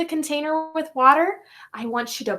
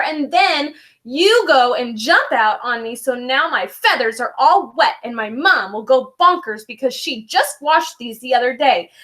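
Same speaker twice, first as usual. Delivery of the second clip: annoyed penguin; 2 semitones higher than usual. Acted. Soaked penguin scolds Franklin.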